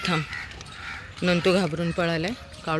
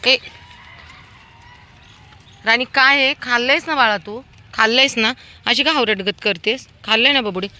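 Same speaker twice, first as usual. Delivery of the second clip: higher, louder teasing scold; fond scolding; 8 semitones higher, 7 dB louder than usual. Real, not acted. Woman scolds greedy dog Rani for eating others' food, high fond chiding. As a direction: chide the greedy dog lovingly.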